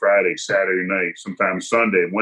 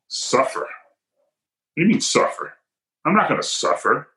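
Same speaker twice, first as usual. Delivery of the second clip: incredulous; 6 semitones higher than usual. Retold or imitated. Incredulous retort to officer.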